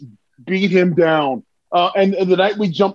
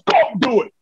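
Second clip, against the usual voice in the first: insistent command, pitched up; acted order; 4 semitones higher than usual. Veteran ordering a young partner to the top rope, insistent. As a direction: push it out as an impatient order. Ron ordering him in retold scene.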